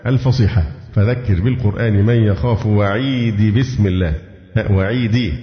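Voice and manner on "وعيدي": وعيدي with the final long ee restored; final ya sounded. Shown as a demonstration. Teacher showing the dropped pronoun, وعيدي with its final ya sounded. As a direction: end وعيدي on an open, long "dee". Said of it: "حذفت ياء المتكلم".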